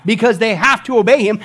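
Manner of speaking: loud, high, pounding pulpit declaration; emphatic preaching. Real, not acted. Preacher insists to congregation on Jesus' authority, loudly emphatic. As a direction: thunder it with conviction. Climax, then repeated softly.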